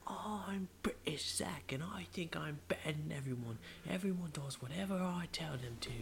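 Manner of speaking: mock screaming in awful British accent, very high; British Zach. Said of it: "And then I started screaming".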